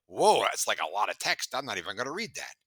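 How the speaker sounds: loud startled whoa, then fading off; loud mock shock at a wall of text; hammed-up reaction to a long email; mock overwhelmed reader. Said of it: "it's like".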